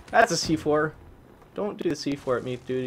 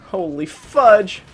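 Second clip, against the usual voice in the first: shout; 9 semitones higher, 13 dB louder, much slower than usual. Real, not acted. Exploding at getting killed.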